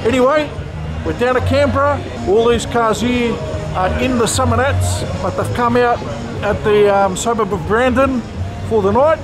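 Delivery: muffled behind a mask; talking through a face mask. Real, not acted. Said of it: "and excuse the mask".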